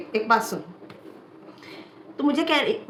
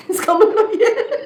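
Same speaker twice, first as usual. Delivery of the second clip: high, louder and slow through laughter; 9 semitones higher, 6 dB louder, slower than usual. Real, not acted. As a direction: laugh while drawing the words out. Laughing, drawn out at the end. (धीमी हँसी के साथ ऊँची आवाज़)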